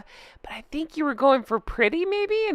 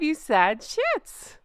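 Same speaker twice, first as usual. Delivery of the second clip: mock welcome; 3 semitones higher, slower than usual. Real, not acted. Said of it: "welcome to the club".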